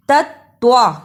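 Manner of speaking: "तत्वा" with soft त then hard, heavy त्वा; gentle first syllable, forceful second in "तत्वा"; soft ta, firm twa. Shown as a demonstration. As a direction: go from light tongue to firm emphatic t in "तत्वा". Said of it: "ता नरम जबान से अदा करें और त्वा को सख्ती के साथ".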